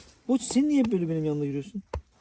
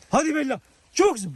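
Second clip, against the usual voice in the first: talking to a dog; 11 semitones higher, 9 dB louder than usual. Real, not acted. Encouraging the dog.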